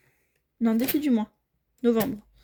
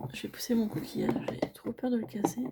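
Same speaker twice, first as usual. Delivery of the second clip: whisper; 5 dB quieter than usual. Real, not acted. Moving a fragile shell.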